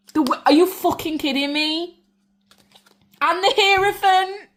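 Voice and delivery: high, loud disbelieving outburst; can't believe the cards she's drawing; really excited. Real, not acted. Reader turning the cards, shouting high with disbelief. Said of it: "I got really excited then".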